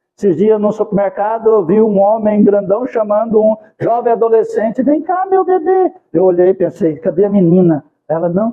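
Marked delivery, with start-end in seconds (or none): 4.8-5.9 thin, very high falsetto calling voice. Recalling a big man in a supermarket calling a teenager, speaker imitates his thin high voice. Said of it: "com a voz fina".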